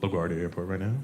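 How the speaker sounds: low, understated cabin announcement; pilot's announcement. Retold or imitated. Pilot updating passengers before landing, low announcement voice. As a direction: imitate a pilot on the intercom, low and even. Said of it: "the pilot will make an announcement".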